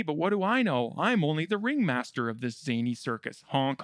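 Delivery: ordinary talk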